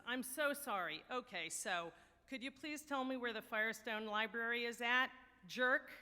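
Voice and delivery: apologize, then land the final insult hard; mock apology. Young man answering a condescending professor, cheeky mock apology. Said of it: "the young man apologizes".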